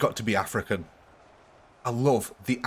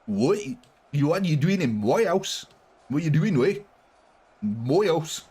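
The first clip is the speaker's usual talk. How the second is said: higher hammed-up South African accent, chasing an intruder out; mock South African accent; 5 semitones higher than usual. Streamer praising South African accent, angry mock South African. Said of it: "I really like the South African accent".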